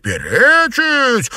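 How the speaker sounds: very high, loud, drawn-out outraged cry; mother echoing the aunt, outraged. A narrator's reading. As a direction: echo the word in threatening outrage. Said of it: "возмутилась мать Чуньянь с грозным видом".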